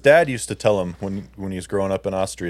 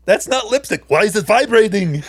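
much higher mock female voice; imitating her; 10 semitones higher, 5 dB louder than usual. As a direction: squeak it out like the alarmed wife. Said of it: "And she says".

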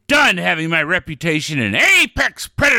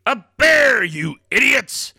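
angry shout; 5 semitones higher than usual. Acted. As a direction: snap at the hosts. Don exploding at the hosts.

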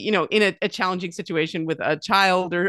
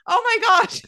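stunned daughter; 5 dB louder than usual. Retold or imitated. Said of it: "And she's like".

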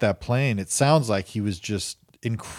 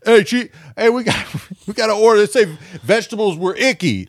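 mock chef yell; 7 semitones higher, 4 dB louder than usual. Chef cursing at cooks, higher mock yell. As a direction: curse at the kitchen.

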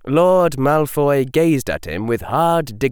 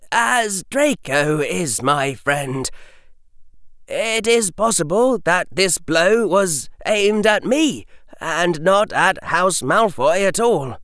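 put-on young boy voice; 7 semitones higher than usual. A narrator's reading.

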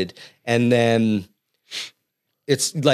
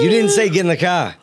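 lightly imitated Boston accent; Boston "car" without the R; mock Boston accent; 5 semitones higher than usual. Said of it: "Say it in a Boston accent".

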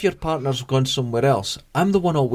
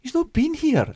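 much higher voice for the female manager; imitating the manager. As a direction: lightly mimic the manager, pitched way up. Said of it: "she's going".

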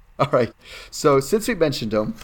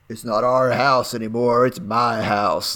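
smoker's voice; slower than usual. Retold or imitated. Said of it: "You got that smoker's voice down".

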